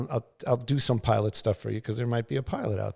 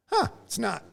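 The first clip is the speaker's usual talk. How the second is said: surprised realization; 12 semitones higher than usual. Retold or imitated. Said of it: "I look down and I'm like".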